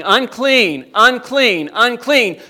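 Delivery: loud falling cry of unclean, repeated; a leper calling out a warning in the street; leper's warning yell. Retold or imitated. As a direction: call it out so everyone keeps away. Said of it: "walk around yelling".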